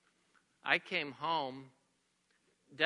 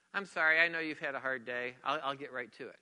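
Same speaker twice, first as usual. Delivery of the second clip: apologetic, validating, lower voice; conciliante; 5 semitones lower than usual. Acted. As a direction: soothe a tired partner, pitch dropping. Example of validating a partner.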